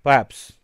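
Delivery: perhaps, loud, stress on the first part; whole word said. Shown as a demonstration. Teacher giving the whole word loudly. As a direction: say perhaps clearly, first syllable hit. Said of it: "stress पड़ता है".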